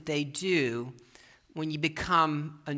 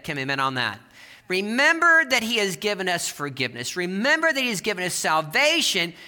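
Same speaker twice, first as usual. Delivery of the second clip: louder, rising emphasis on each 'remember'; preaching exhortation; 2 semitones higher, 3 dB louder than usual. Real, not acted. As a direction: drive each phrase home to the congregation.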